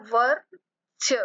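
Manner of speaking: वर्ष drawn out slowly, r sounded before the ष; slow model word वर्ष; careful pronunciation. Shown as a demonstration. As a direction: stretch out वर्ष slowly, r first. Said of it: "वर हम बोल रहे हैं".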